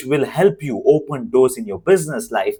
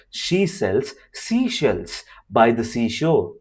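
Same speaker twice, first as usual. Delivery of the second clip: tongue twister drill; slower than usual. Shown as a demonstration. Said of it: "Tell it five times".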